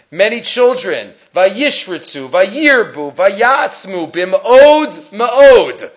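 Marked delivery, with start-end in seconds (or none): 1.3-5.9 "Vayishritzu, Vayirbu, Vayatzmu" set apart, "Bim'od Ma'od" drawn out; emphatic word list. Shown as a demonstration. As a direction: build to a slow, stretched "Bim'od Ma'od". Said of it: "The Torah is emphasizing many".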